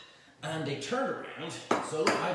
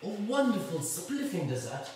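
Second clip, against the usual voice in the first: mock a plummy Eton boy; posh schoolboy; 3 semitones higher than usual. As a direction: Eton boys admiring their dessert, hammed-up posh toff voice. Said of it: "and they go".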